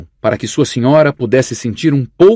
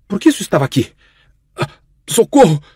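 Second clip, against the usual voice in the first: panicked, strangled call for help, higher pitch; grito sufocado de pânico; choking cry for help; 5 semitones higher, faster than usual. A narrator's reading. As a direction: try to scream as the throat closes. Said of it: "Tentou gritar, mas a voz não saiu direito".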